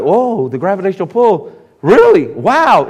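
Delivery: a lightly voiced scientist catching on; mock amazement. Preacher voicing scientists stunned by gravity, mild amazement. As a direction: act out the surprise of the discovery. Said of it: "it's like".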